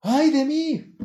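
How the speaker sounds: high, loud anguished cry; a loud, high, drawn-out wail of woe. Retold or imitated. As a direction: cry it out slowly like a prophet undone.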